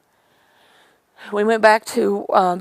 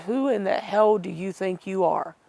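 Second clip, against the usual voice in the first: imitating a rude telling-off, measured and emphatic; mildly indignant mock scolding, each word spaced out; retold rudeness. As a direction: quote a rude man, leaning on the words. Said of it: "he was so rude".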